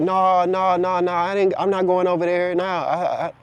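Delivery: lightly voiced stubborn refusal; reluctant refusers. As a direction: imitate someone backing out of going. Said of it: "They like".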